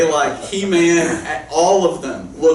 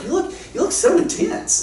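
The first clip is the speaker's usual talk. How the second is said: high, cheery "you look so intense"; innocently cheerful remark; said all happy. Retold or imitated. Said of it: "he said this all happy".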